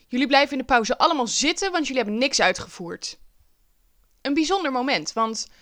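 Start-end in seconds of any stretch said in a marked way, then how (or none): 0.1-3.2 imitating a teacher putting her foot down; retold teacher's telling-off, a little louder; mild stern teacher. Teacher keeps the class in over break, mildly stern.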